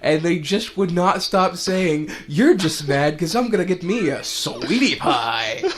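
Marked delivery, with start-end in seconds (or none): 2.3-5.6 high, loud mock quote; imitating friends' voice. Friends repeating the meme, high loud mocking voice. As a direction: parrot the meme line playfully. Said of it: "kept saying it in different voices".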